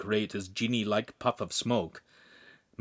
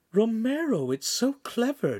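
calling out; 11 semitones higher than usual. A narrator's reading. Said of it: "Giulietta called".

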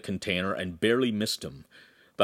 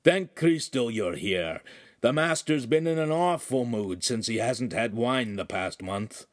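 croaking. Acted. Oaf greeting Aramis, croaking. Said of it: "he croaked".

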